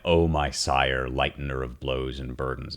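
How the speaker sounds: moving recited line. Shown as a demonstration. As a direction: let the grief sink into each word. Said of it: "One of the most moving lines".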